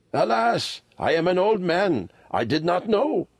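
put-on high, rueful old man; old lama, rueful. A narrator's reading. Old lama excusing his ignorance to Kim, high and rueful. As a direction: lament gently in a high old voice.

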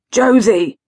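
a restrained holler. Acted. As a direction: call out to someone in another room. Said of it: "she heard him holler".

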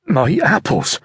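high, affronted cry; indignant apple seller. Acted. Apple seller protesting to the sergeant, high and indignant. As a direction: protest like she's been robbed.

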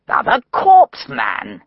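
exasperated outburst. Acted. Meadows' face tightened.

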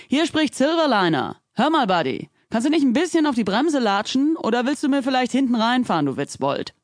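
tight, restrained fury into the radio; barely held anger. A narrator's reading. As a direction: keep the rage just under the lid. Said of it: "die seine Wut nur schwer zurückhalten konnte".

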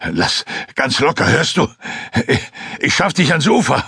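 reassuring hunter, words tripping slightly; calming rescuer. Acted. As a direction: talk a drowning man into staying loose. Lasnik calms a trembling man.

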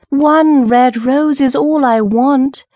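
high, drawn-out imploring call; pleading bird, stretching each word; nightingale's cry. A narrator's reading. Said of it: "cried the nightingale".

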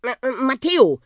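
high, stammered little peep; small boy's nervous high stutter; timid squeak. A narrator's reading. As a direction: squeak your name shyly, tripping on the first syllable. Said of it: "piepste Matteo".

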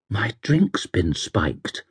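soft, slow, woozy murmur; drugged slur. Acted. Drugged passenger tells cabbie, woozy and faint. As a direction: say it slowly and faintly, barely managing. Drugged woman tries to speak.

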